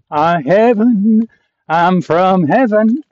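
slow, drawn-out joking answer; slow mock-serious reply; deadpan joke. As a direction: stretch it out like a wisecrack.

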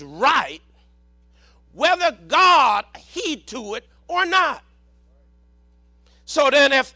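measured, emphatic sermon delivery; preaching. Real, not acted. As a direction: preach it in weighty phrases with pauses. Preaches to congregation.

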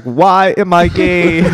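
slow, drawn-out lament; slow wailing quote. Retold or imitated. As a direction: stretch it out slowly. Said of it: "He's on the ground like".

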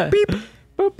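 high beeps like a detector; beep boop. Pretend. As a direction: make metal detector beeps. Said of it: "metal detector right now".

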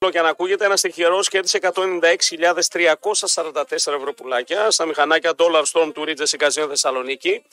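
steady, promotional radio ad read. Acted. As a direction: read out the jackpot plug to listeners. Reads a casino ad. (διαφημιστική εκφώνηση)

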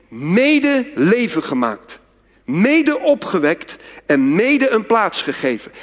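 each mede leaned on, slow; slow triple, hitting mede each time; slow, stressing the repeated mede. Shown as a demonstration. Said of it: "Hij zegt drie keer mede".

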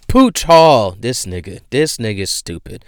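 ordinary delivery

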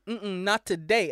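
drawn-out, slow "not today"; slow, emphatic mock refusal; acted refusal. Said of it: "he goes".

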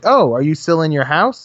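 rising, mock-innocent ask; sarcastic mock question; mock surprised question.

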